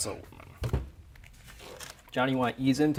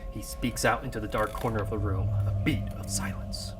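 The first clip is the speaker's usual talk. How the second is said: story narration. A narrator's reading. Screenplay narration continues.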